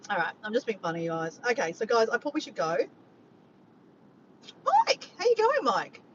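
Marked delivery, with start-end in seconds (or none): 4.7-6.0 high, loud delighted hail; calling out. Real, not acted. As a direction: call out brightly to someone just arriving. Greets viewer who just joined.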